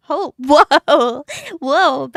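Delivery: loud, astonished exclamation; stunned delight; surprised whoa. Real, not acted. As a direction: gasp out amazement. Surprised by old art.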